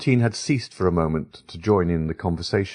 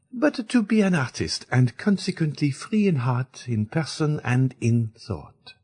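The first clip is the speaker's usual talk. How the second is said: put-on firm, higher young woman declaring her freedom; Eugénie to the ladies, firm and unbending; 9 semitones higher than usual. A narrator's reading. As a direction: speak it with firm resolve, slowing at the end. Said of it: "with so firm a tone".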